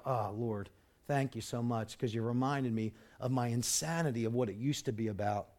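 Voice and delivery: low, soft thanks to God; lightly acted prayer, voice dropped low and quiet; grateful prayer. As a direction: murmur a humble thank-you. Voices own grateful prayer to the Lord.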